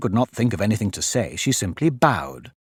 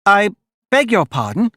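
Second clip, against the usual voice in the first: higher-pitched, meek apology; very humble; 8 semitones higher, 3 dB louder than usual. A narrator's reading. Alice apologises to the mouse, very humbly. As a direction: apologise humbly in a raised little voice. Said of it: "said Alice very humbly".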